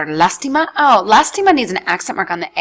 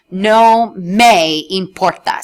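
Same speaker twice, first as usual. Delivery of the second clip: slow model phrase; 4 dB louder, much slower than usual. Shown as a demonstration. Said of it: "So to say".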